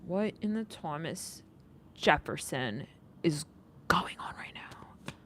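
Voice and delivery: slow, soft whisper of disbelief; baffled whisper. Acted. Reader whispering her disbelief to the viewers. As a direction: lean in and whisper it like a secret shock.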